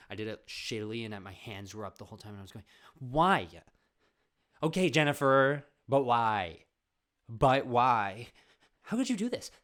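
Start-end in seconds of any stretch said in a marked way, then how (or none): 3.0-9.5 full hammed-up shouting rage; angry acting. Student overacting a scene, furious shout. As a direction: yell it as overblown drama. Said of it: "using my only anger".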